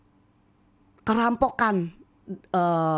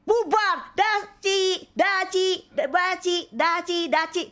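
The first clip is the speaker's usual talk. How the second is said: scattering fast; 8 semitones higher, slower than usual. Retold or imitated. Mothers scatter like seeing ghost.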